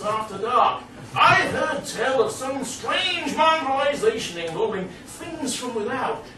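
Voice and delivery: fussy professor. Retold or imitated. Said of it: "he was saying".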